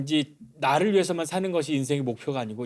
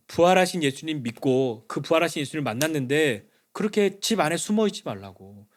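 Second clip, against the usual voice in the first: ordinary delivery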